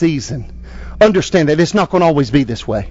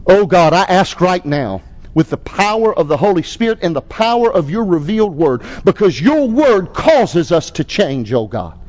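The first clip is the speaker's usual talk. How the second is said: pastor's closing prayer. Acted. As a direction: lead the congregation in prayer.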